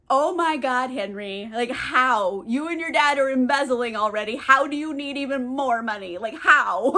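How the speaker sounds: mock exasperation with punched words; incredulous, emphatic complaint; exasperated. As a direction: act out fed-up disbelief. Julie exasperated at Henry's demand.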